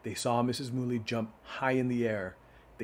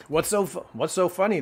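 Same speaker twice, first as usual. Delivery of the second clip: higher, louder goose voice; 7 semitones higher, 7 dB louder than usual. Acted. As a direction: ask it as the giggling goose. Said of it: "what's, I read that, Missus Mooley".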